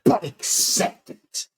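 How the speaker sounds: high wrestler impression, loud then dropping to a slow rasp; Macho Man. Wrestler DJ tells the crowd to accept it, hammed-up impression. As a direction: start big and high, squeeze out the last words slowly. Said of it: "if the Macho Man was a D J".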